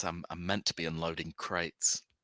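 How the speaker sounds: embarrassed. The narrator voices a crate worker answering the players' question, sheepish. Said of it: "He sort of looks at you sheepishly and he says".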